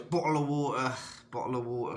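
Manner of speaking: imitated British accent, heard abroad as a catchphrase; mock British accent. People in Mexico imitating British talk, mock British accent. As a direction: lightly exaggerate the British accent. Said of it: "weird little accents".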